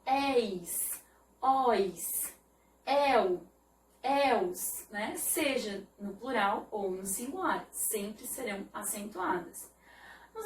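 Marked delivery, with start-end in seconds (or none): 0.1-4.9 "eis, ois, el, els" with open vowels; teacher sounding out "eis, ois, el, els" with open É and Ó; open diphthongs. Shown as a demonstration. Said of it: "terminadas em ditongo aberto".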